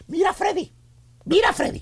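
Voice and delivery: imitated nagging wife; mock scolding, as a stern warning. Wife warns her husband Freddy, scolding. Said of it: "con voz regañona".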